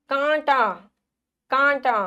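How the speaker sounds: कांटा with a held nasal आ; careful dictation of कांटा; nasalised vowel. Shown as a demonstration. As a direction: draw out the first vowel of कांटा. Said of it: "आवाज आई?".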